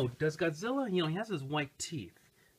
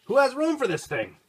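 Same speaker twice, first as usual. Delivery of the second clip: excited marveling; 12 semitones higher, 9 dB louder than usual. Real, not acted. Marvels again at the toy's size.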